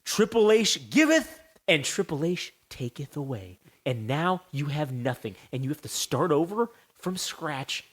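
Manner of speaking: slow, solemn mock pronouncement; Triple H. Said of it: "he said".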